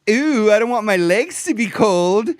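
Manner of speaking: hammed-up fuss over cold legs; mocking wimpy voice. Host mocks a guy fussing about cold legs, prissy mock whine. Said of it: "I don't know why he has to say it like that".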